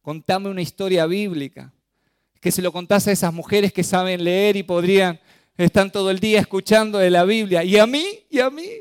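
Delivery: mock tearful child complaining; half-hearted imitation of a weeping girl; imitating crying daughter. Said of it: "llorando me dice".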